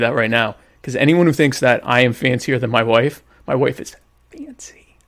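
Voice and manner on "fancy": slow, drawn-out whisper; hushed, affected emphasis; mock fancy. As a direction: whisper it slowly, as if terribly refined. Mockingly showing off wife's fanciness.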